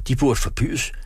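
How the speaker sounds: high, indignant outcry; acted scream of protest. A narrator's reading. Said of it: "skreg han og vækkede drengen".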